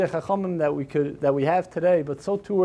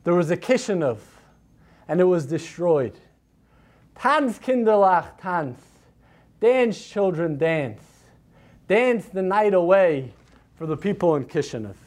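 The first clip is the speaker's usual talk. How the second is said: scornful thunder. Acted. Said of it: "With a voice full of scorn ... thundered".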